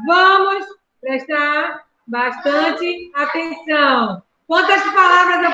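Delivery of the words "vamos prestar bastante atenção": slow, word by word dictation. Shown as a demonstration. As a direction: spell each word out slowly for counting. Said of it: "Conta nos dedos as palavras".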